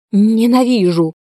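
high shrieking cry of hatred; shrieked. A narrator's reading. Sofya shrieks at Mefody while fighting him. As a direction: shriek it out in fury. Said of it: "взвизгнула она".

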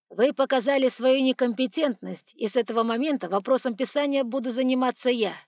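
loud, high stern decree; stern authority. Acted. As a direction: strip her of power. Archon deposes priestess.

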